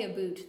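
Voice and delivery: "a boot" with a long oo; mock Canadian "about". Shown as a demonstration. Canadian rejecting the stereotype, mock pronunciation "a boot". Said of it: "We don't say".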